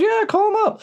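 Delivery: mock lady voice jumping way up; eager lady squeaks out her order; high-pitched lady imitation.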